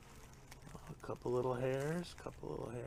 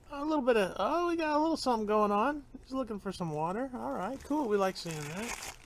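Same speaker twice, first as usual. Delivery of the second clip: cutesy plant talk; 13 semitones higher, 8 dB louder than usual. Pretend. Talking to plant about roots.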